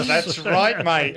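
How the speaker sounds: slow, lightly put-on Australian accent. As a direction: drawl it out like a laid-back Aussie. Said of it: "Call me Bruce".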